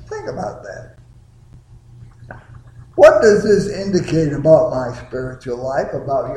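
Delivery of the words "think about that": the same line again, much higher and softer; higher, softer repeat. Shown as a demonstration. Preacher repeats his charge to the congregation, higher and softer. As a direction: let it hang lightly upward.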